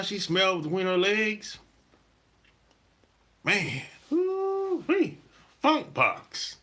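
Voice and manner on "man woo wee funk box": high, long, drawn-out woo-wee; slow high-pitched disgusted holler; woo-wee exclamation. Real, not acted. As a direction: stretch it out way up high like a whistle at a bad smell. Reacting to imagined smell.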